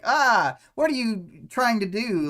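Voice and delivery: mildly shrieked retelling of someone's panicked thought; mock scream. Imitating the friend's internal screaming thing, mock scream. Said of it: "like, screams, like".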